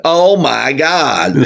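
high, slow, drawn-out "Oh my God"; mock-exclaiming, pitched well up; stretched-out exclamation. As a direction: stretch every word for comic effect. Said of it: "we would probably stretch it out".

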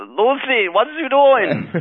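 high, loud sitcom husband shout; Ricky Ricardo. Acted. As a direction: call for Lucy like an exasperated husband. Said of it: "let's hear your Ricky Ricardo impression".

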